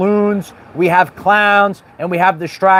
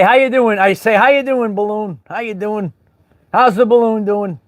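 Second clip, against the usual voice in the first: greeting the balloon; 3 semitones higher than usual. Pretend.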